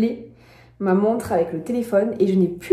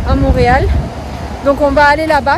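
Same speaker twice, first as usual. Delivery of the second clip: raised voice against the wind; shouting over wind; 5 dB louder than usual. Real, not acted. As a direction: talk loud over gusts of wind. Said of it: "Je sais pas si vous m'entendez avec le vent".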